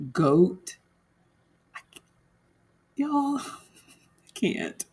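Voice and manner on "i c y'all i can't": very slow and soft, dissolving into laughter; can't stop laughing. Real, not acted. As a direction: laugh so hard the words barely come out. Overcome laughing about raccoon.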